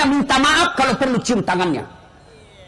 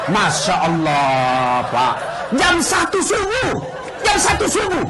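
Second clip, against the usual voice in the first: exclaiming; slower than usual. Retold or imitated. Stranded at one in the morning.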